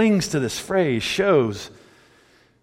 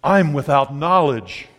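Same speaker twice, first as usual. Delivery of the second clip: slow mock pompous declaration; slower than usual. Shown as a demonstration. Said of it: "it really comes off when you say".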